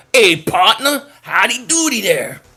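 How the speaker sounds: put-on country twang; country accent. Streamer jokes about looking like he's from Oklahoma, country accent. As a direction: greet them in a playful country drawl. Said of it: "That's my country accent".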